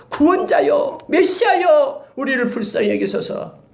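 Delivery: high, loud pleading call; crying out. Acted. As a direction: call out to the Messiah for mercy. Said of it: "메시아를 얘기하는 거예요".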